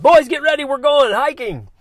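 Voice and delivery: put-on loud, high-pitched call to the boys; re-enacted rallying shout, stretched at the end; yelling down the hallway. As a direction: holler it to kids at the far end of the house. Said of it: "I just yelled down the hallway".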